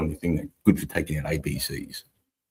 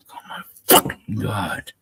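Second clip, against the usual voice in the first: higher, slower dread; higher, slow "oh my god" of doom; dismayed groan; 5 semitones higher, slower than usual. Retold or imitated. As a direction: let it sink in with horror. Dread at being named.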